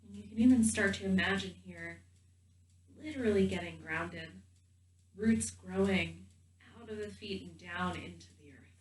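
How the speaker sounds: gentle guided meditation voice with long pauses. Real, not acted. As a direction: guide them calmly into the body, leaving space between phrases.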